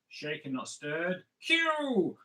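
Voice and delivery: slow line, then a high swooping call; hammed-up suave spy catchphrase; measured delivery leaping into a drawn-out exclamation; Bond impression. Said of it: "All the impressions are coming out today".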